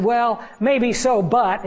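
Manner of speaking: grudging concession. Retold or imitated. Emailer answers the preacher's evidence, grudging concession. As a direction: concede slowly, holding back a but.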